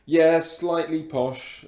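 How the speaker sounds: his real voice, slightly posh RP; posh English accent. Real, not acted. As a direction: drop the put-on accent, go posh. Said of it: "this is what I actually sound like".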